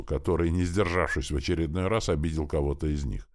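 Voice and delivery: usual speaking voice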